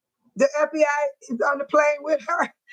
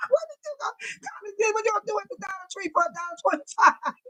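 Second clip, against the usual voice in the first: softer, laughing through the question; 6 semitones higher, 6 dB quieter, faster than usual. Real, not acted. Host teasing a commenter, laughing through it. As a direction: giggle it out while asking.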